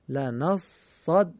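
slow, held لنصدقن, each doubled letter lingered on; slow recitation with three shaddas. Shown as a demonstration. Teacher showing a word with three shaddas, slow and careful. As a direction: spell out every shadda in لنصدقن. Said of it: "شمرده تر بخونیم".

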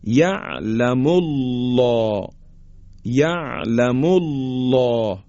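یعلم الله with thick dark lam after "mu", long rounded vowel; slow recited یعلم الله, full backed الله; heavy taghliz. Shown as a demonstration. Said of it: "بایستی درشت و با غلظت ادا کنیم".

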